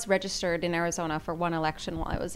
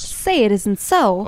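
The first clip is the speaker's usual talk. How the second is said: sarcastic; 2 semitones higher, 9 dB louder, slower than usual. Acted. Sarcastic reply to bad news.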